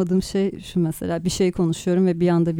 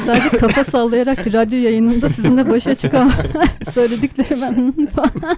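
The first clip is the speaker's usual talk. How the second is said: talking through laughter, higher; laughing; 4 semitones higher, 5 dB louder than usual. Real, not acted. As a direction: laugh while you complain. Host laughs at silent nodding guests.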